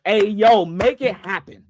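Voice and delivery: re-enacting an excited fan's urging; hyped-up "come on" to the team. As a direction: call it out eagerly, then stretch the words. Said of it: "I get excited, and I'm just like".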